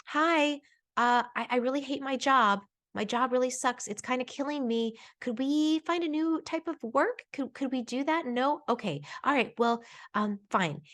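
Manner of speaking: put-on a tiny hopeful child voice, then giving in; little inner voice. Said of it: "what if the little voice is saying".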